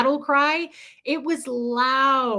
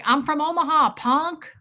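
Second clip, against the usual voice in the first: higher, puffed-up mock boast; mock tough comeback; 4 semitones higher, 3 dB louder than usual. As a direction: throw his swagger back at him. Mock comeback to the Brooklyn guy.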